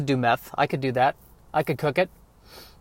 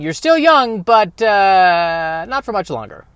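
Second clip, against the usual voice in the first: higher, mock-ominous voice of his own body; 4 semitones higher, 4 dB louder, slower than usual. His aging body warns him he won't stay young: higher mock voice. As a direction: let his body speak, pitched up and knowing. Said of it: "my body's saying".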